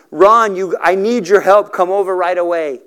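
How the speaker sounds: mild mock-sobbing urgency, no real tears; retold sobbing plea. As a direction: imitate an upset mother calling her son. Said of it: "she's sobbing, and she calls her son".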